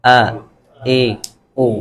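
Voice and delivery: آ اے او sounded slowly from the throat; alif sound demo. Shown as a demonstration. Teacher modelling alif vowels for students, slow. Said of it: "لیکن اس کی sound کیا ہے؟".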